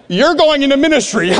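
high, hammed-up wail; mock bawling. Friends bawling at his news, mock crying. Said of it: "All started bawling".

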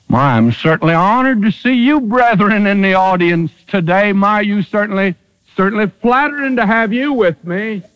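butter up the visiting Pharisees, tongue in cheek; mock flattering. Preacher mocking modern preachers, in a fawning, sweet tone.

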